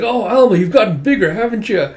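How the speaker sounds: high, loud gushing greeting; cheerful. Acted. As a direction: fuss over them as you go in for a hug. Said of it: "coming in cheerfully for a hug".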